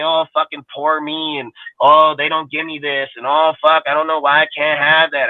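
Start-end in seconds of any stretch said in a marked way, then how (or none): 0.0-1.4 higher, drawn-out poor-me moan; mock self-pity. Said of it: "I didn't sit up at night and say". 1.8-3.1 higher, slow mock complaint; mock self-pity. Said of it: "I didn't sit up at night and say". 3.3-5.3 higher-pitched mock lament; mock self-pity. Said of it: "I didn't sit up at night and say".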